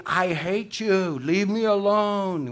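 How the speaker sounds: high, drawn-out parrot wail; ranting parrot. Retold or imitated. Parrot still ranting from the shut freezer, high and drawn out. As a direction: play a parrot carrying on, slow and high-pitched. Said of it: "she could still say".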